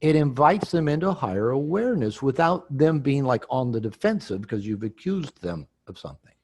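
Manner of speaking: normal talking voice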